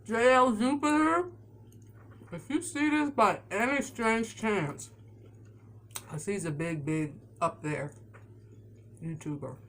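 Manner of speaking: chewing while talking; mouth full. Real, not acted. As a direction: talk through a mouthful of sandwich. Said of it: "talking with my mouth full".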